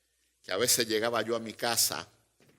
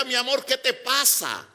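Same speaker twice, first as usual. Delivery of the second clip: worried husband; 11 semitones higher, 4 dB louder than usual. Retold or imitated. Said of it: "yo iba preocupado y le decía".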